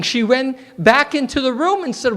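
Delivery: usual speaking voice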